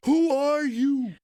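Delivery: put-on high, slow, loud small child asking through tears; scared little boy. At Disney World, the lost crying son asks his famous dad who he is, high scared child voice. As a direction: play the lost toddler who doesn't know his dad.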